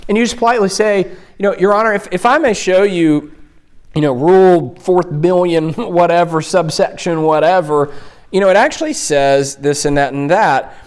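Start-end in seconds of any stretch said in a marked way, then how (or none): 1.6-10.7 polite, gently helpful correction; kind tone. Shown as a demonstration. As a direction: kindly correct the judge with a smile. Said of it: "It's a kind tone".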